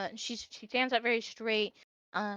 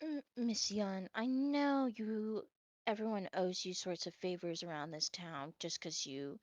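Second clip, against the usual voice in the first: overheard quiet pleading; 3 semitones lower, 6 dB quieter than usual. Acted. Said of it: "you're gonna hear Dara going".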